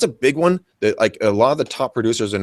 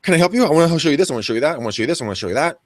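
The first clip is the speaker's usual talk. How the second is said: mock the pushy agent trailing buyers around; eager puppy-dog agent; 4 semitones higher, much faster than usual. Agent mocking a clingy colleague, overeager chirpy voice. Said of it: "like a lovesick puppy dog".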